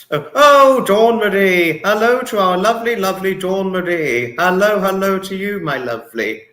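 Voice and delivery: high, loud gushing hello; excited greeting. Real, not acted. Streamer welcoming a regular viewer, high and gushing. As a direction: greet a favourite viewer with delight.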